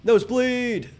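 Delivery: sudden high exclamation of alarm; surprised yelp. Real, not acted. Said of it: "oh, cool, I'm bleeding".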